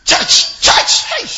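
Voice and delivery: high mocking yelp of church, hey; mock shout. Preacher mocking how people jeer at church boys, loud and high.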